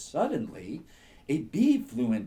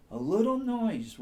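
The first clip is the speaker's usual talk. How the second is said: much higher, a small voiced stage whisper; little rabbit whisper; 10 semitones higher, 6 dB louder than usual. Sleepy rabbit asking the squirrel for help, lightly whispered. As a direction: squeak it like a tiny rabbit. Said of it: "whispered the rabbit".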